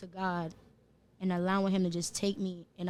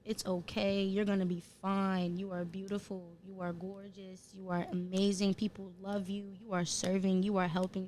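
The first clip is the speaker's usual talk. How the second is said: gentle reassurance. Retold or imitated. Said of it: "the healed me was just like".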